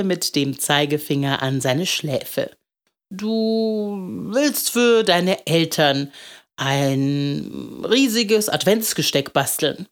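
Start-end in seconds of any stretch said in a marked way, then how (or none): 3.1-9.9 slow, drawn-out musing; lightly voiced old man, guessing playfully; old candle maker guessing.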